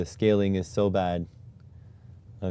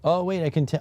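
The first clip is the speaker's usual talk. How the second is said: sudden surprise; 9 semitones higher, 4 dB louder, faster than usual. Real, not acted. Sudden glimpse while fixing settings.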